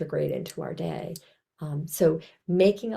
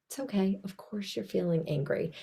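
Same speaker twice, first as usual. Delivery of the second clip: gentle self-talk; 5 dB quieter than usual. Shown as a demonstration. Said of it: "I hope you notice my tone of voice".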